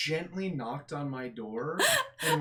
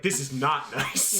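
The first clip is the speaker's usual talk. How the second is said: dry; 3 semitones lower, slower than usual. Retold or imitated. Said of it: "And I was like".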